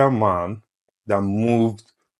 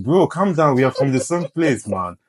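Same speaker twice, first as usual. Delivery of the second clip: raised, pleading call to a fellow Nigerian; louder and higher, bro to bro; calming a stranger; 6 semitones higher, 4 dB louder than usual. Retold or imitated. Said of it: "And you get yourself like".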